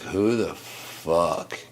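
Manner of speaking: dragged-out outraged question; who the fuck said very slowly; slow, drawn-out disbelief. Retold or imitated. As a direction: stretch out each word in disbelief. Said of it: "I'm like".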